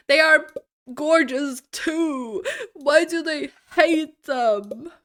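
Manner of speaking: mock outrage. Streamer pleading for unsold books, mock outrage.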